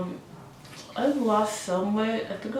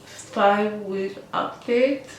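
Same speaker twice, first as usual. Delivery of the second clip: slightly slurred speech through a jaw splint; splint in mouth. Real, not acted. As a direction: talk around a splint in your mouth. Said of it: "I'm still not clear because I have the splint in my mouth".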